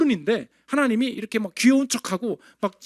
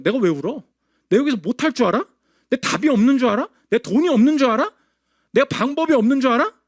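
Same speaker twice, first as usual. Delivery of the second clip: proud, defiant rising questions; a touch of a defiant boast; mock defiance. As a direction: voice a stubborn proud man refusing to cry. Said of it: "이게 교만이라는 거예요".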